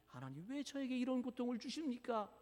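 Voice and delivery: hushed, acted tearful plea; tearful complaint. Church elder weeping to God over suffering, tearful complaint. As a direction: drop to a soft, hurt question. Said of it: "그러면서 눈물을 흘".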